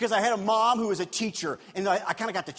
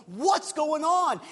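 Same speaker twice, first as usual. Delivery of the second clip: surprised question; 7 semitones higher, 4 dB louder, slower than usual. Retold or imitated. Brother acting surprised.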